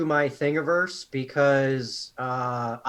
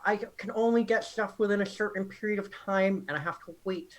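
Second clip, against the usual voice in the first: Adam Savage voice; 5 semitones higher than usual. Acted. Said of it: "You sound exactly like Adam Savage".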